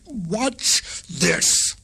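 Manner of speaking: a hint of a proud frog father; father frog crying out. A narrator's reading. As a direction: call it out, lightly voiced. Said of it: "he cried".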